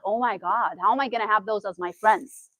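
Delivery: low, soft anxious self-talk; worried inner voice. Retold or imitated. New student doubting she can make friends, quiet and worried.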